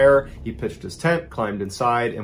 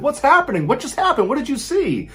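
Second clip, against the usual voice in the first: panicked questions; 13 semitones higher than usual. Retold or imitated. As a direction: fire the questions in terror. Terrified daughter asking mom.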